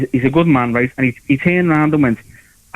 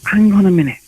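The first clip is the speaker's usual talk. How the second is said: ranting inner monologue; 2 semitones higher than usual. Retold or imitated. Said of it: "I thought to myself".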